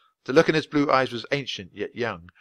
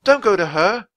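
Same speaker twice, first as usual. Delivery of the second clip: loud, high plea; yelling; 10 semitones higher, 10 dB louder than usual. Acted. Annie yells at the unicorn to stay away, loud and high. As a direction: shout a warning. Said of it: "yelled Annie".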